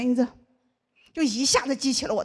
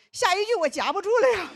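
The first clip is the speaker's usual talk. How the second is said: cutesy voice cracking; 6 semitones higher than usual. Acted.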